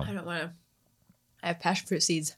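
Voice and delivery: quiet and close to the mic; hushed, talking through a snack; soft ASMR voice. Real, not acted. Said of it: "A S M R".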